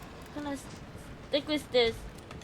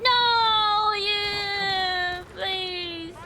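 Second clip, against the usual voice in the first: long, high wailed no sinking into please; drawn-out plea; 4 semitones higher, much slower than usual. Real, not acted. Player begging the game as things go wrong, wailing plea.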